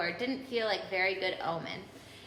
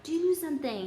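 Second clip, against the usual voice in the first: higher urgent plea; desperate; 7 semitones higher than usual. A narrator's reading. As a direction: beg for help. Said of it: "he said desperately".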